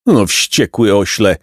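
slow, mild exclamation; exclaimed exasperation. Acted. Jacek about the furious donkey, slow understated outcry. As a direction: draw the words out in mild exasperation. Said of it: "zakrzyknął Jacek".

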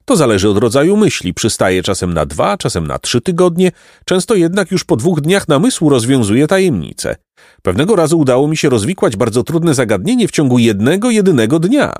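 lightly voiced, animated donkey philosopher. Osioł filozof chwali się namysłem. (lekko odegrany osioł filozof)

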